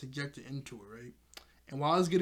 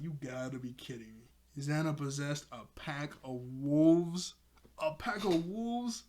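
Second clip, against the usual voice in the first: slow, stunned disbelief; incredulous. Retold or imitated. Host imagining facing possessed wolves, slow disbelief. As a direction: drag it out, can't believe it. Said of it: "I'd be like".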